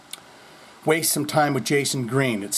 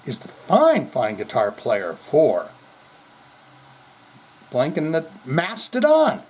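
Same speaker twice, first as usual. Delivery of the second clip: mock lecturing correction; slower than usual. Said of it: "and say".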